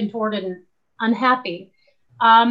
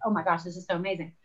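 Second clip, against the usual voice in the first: put-on excited inner child; 4 semitones lower, 8 dB quieter, faster than usual. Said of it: "My inner child was just like".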